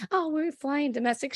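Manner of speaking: mocking snooty voice. Mocking Whitney's snooty quote.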